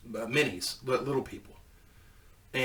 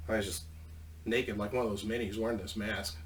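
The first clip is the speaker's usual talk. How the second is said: ordinary delivery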